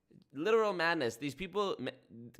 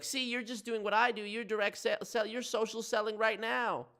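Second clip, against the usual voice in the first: mocking an MLM boss in a cowboy accent; 10 semitones higher than usual. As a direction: do Colleen as a hammed-up Texan. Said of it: "I give every M L M person a cowboy accent".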